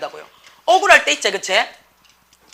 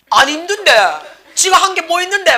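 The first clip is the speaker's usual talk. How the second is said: higher, louder dismissive comeback; mock indignant retort; 6 semitones higher, 4 dB louder than usual. Mother answers the tired child's complaint, mock indignant. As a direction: imitate a mother scoffing at the complaint.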